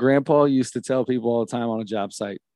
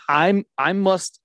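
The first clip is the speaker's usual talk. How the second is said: slow careful take; 4 semitones higher, slower than usual. Shown as a demonstration. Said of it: "now I keep thinking about it".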